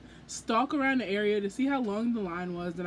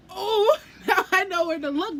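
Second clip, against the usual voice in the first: higher, louder, laughing through it; laughing reply; 7 semitones higher, 6 dB louder than usual. Retold or imitated. Fan answering the dress tip, laughing and loud. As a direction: laugh out the punchline.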